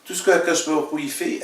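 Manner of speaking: ordinary talk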